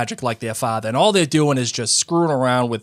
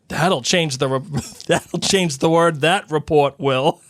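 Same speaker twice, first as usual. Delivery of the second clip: laughing while reading; 3 semitones higher than usual. Acted. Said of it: "said Ron".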